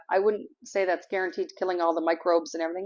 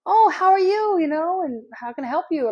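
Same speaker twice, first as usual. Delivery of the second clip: high, louder, gushing imitation of the friendly lady; 9 semitones higher, 6 dB louder than usual. Imitating the neighbour lady welcoming a stranger at her door, high and gushing. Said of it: "She goes".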